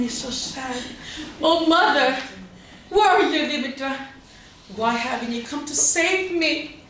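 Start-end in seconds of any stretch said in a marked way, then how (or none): 1.4-6.8 pleading cry. Acted. Persephone calling for her mother.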